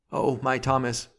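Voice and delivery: high, plaintive wail. A narrator's reading. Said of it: "wailed the girl".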